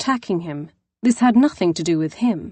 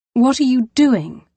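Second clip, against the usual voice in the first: high, loud accusing question; 6 semitones higher, 5 dB louder than usual. Acted. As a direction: hurl it at him as a charge. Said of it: "Accusation bit into each word".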